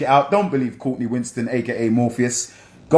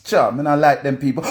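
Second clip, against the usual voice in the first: put-on Jamaican accent. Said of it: "you put on their Jamaican accent".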